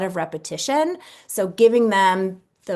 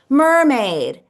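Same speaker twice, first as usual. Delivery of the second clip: put-on child's answer; 5 semitones higher, 7 dB louder than usual. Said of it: "she'll say something like".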